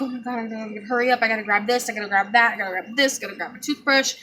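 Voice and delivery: hurried mental checklist; rushed. Retold or imitated. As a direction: rattle it off in a mild rush. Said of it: "I'm hurrying up".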